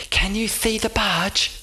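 eager, high companion; high derby voice. A narrator's reading. The derby shows Oscar the port in a high voice.

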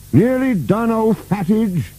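high-pitched nervous servant; nervous reply. A narrator's reading. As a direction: answer nervously, voice pitched right up. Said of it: "he replied nervously".

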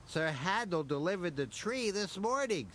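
added. Acted. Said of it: "Skarloey added".

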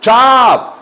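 loud, high "job" with a ch-like start; emphatic "job" opening on a crisp ch sound; correct "job". Shown as a demonstration. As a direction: punch out "job" as "chab". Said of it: "se dice job".

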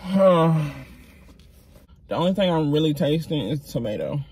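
words around a bite; talking while chewing. Real, not acted. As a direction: mouth partly full of food. Seen 2: Ate wrap just before; lips pursed, cheeks working during words.

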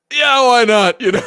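high, loud, hammed-up Glaswegian; thick Glasgow accent. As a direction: belt it out as a mock Glasgow Scot. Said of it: "like, a thick accent".

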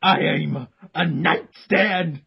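slow, lofty self-important voice; slow solemn character voice. Acted. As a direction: correct them with grave dignity, slowly. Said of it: "that is how he sounds".

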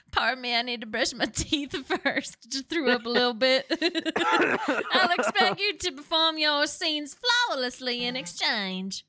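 a lightly posed British aristocratic goddess. Acted. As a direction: play a haughty British noble goddess, lightly. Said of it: "Full British aristocracy".

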